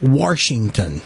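WASHINGTON with an added R, "Warshington"; wife's Saint Louis pronunciation. Retold or imitated. Quoting his wife, Saint Louis "Warshington". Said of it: "My wife says that".

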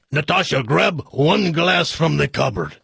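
put-on slow, comic Russian accent; hammed-up Russian husband; mixed-up Russian accent. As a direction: order it slowly in mock Russian. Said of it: "this Russian accent's gonna sound like".

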